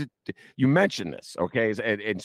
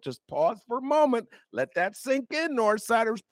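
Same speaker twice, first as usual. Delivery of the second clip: much higher, hammed-up solemn wonder; mock dramatic awe; 14 semitones higher than usual. Ben teasing North Siders to let it sink in, high mock awe. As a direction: play it like a grand mock revelation.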